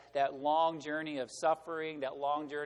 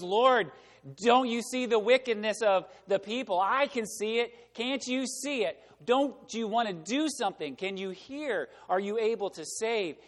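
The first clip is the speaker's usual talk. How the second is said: higher-pitched, insistent appeal; pleading prayer; 4 semitones higher, 3 dB louder than usual. Acted. Habakkuk questions God about the people's wickedness, pleading.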